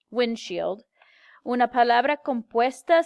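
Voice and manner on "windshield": whispered English gloss. Real, not acted.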